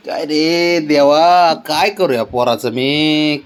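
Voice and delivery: slow, drawn-out hammed-up lament; mock despair. Owner lamenting the sulking cat, slow mock despair. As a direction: sigh it out slowly like a weary parent.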